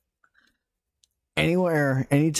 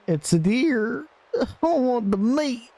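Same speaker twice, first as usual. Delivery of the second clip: excited; 12 semitones higher, slower than usual. Real, not acted. Spots the deer, eager.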